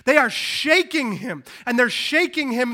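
loud, high-pitched urgent storytelling; forceful preaching. Real, not acted. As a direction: drive the drama home from the pulpit.

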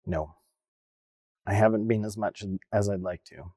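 low, softened, ashamed reply; sheepish admission. Retold or imitated. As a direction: admit it quietly, as if embarrassed. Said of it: "I shamedly admitted to her".

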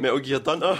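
giggling through a fake name; trying to keep a straight face; breaking character giggling. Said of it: "continue on with this charade".

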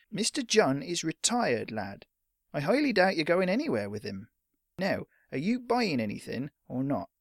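impatient storekeeper voice; sceptical shopkeeper. Acted. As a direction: brush the lad off. Shopkeeper dismisses the boy.

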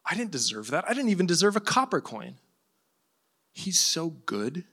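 soft, wondering gratitude; acted grateful beggar, quietly amazed; humble awe. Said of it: "the more right reaction".

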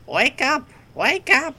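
loud, high yelling wake-up call; shouting to rouse the sleeping girl; baker yelling. Acted. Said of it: "you mimic the voice of the baker".

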